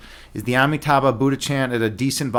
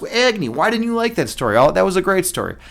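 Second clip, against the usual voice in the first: lightly voiced higher-pitched objecting listener; imagined questioning viewer; 6 semitones higher than usual. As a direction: put on a higher voice, mildly protesting. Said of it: "you might ask".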